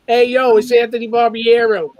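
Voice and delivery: loud, put-on Brooklyn accent. Guest reading writers' credits, hammed-up Brooklyn accent. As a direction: play it as a Brooklyn guy. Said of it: "that's gotta be a Brooklyn accent".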